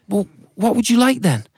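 high, eager thankful voice; a family delighted to reward the ant; high excited offer; grateful family. Acted. Family asks.

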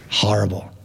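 hushed horrible whisper. A narrator's reading. Narrator whispering to the children, spooky. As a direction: breathe it out like a scary secret. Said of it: "narrator whispers".

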